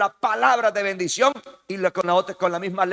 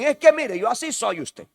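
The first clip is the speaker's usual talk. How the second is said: mock angry excuse; 5 semitones higher, 4 dB louder than usual. Angry person excusing their temper.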